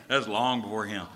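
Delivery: ordinary delivery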